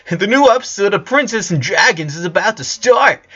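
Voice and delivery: high, bossy call; bossy little sister yelling at everyone; yelled demand. A narrator's reading. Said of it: "yelled Lola".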